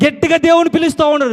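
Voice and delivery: rising preaching shout. Real, not acted. Preacher stirring congregation.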